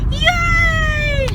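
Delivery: a wild squeal of joy; excited yay. Real, not acted. Host cheering at the start of the video, excited shout. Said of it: "that was unnecessary".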